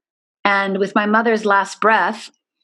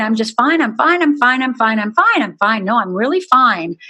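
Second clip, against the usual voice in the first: mock cheerful "I'm fine"; 3 semitones higher, 3 dB louder than usual. Teen hiding her trauma from everyone, mock cheerful. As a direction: chirp "I'm fine" over and over like the perfect student. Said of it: "the outside me".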